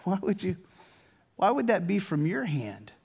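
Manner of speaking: softly hurt questioning; halting, quiet disbelief aimed at God; puzzled, mildly wounded plea; bewildered protest. Acted. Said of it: "You're like".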